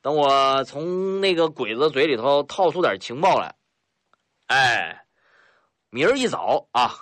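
a hearty, swaggering northeastern boss, lightly voiced; a boastful mountain boss, mildly put-on; rough bandit chief Lao Hu. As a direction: play the sly bandit chief, chuckling at his guest.

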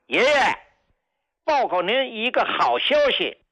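put-on a child calling out high and bright with good news; imitating a happy child's loud announcement; loud, eager child. Child phoning grandpa doctor with good news, excited call. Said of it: "声音很洪亮".

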